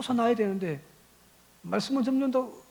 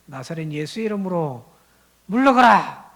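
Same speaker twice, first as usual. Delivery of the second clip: shouted exorcism command; 8 dB louder than usual. Acted. Jewish magicians trying to cast out a demon, building to a shout. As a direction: build to a booming order to get out. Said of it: "외쳐보는 거예요".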